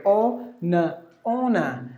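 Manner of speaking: "O, N, ona" split, then joined, weight on O; "ona" with first syllable stressed, falling away. Shown as a demonstration. Teacher breaking honor into syllables, stress on O in "ona". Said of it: "give the stress for the first syllable".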